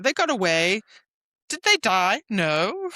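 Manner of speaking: high, sarcastic questioning; teasing the survivors; mock scolding. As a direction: needle them with a mocking question.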